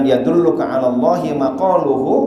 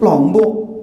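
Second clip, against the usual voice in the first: higher, rising question; startled echo; 5 semitones higher than usual. Acted. Kiai hearing where the horse is from, startled. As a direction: repeat it back in sudden surprise.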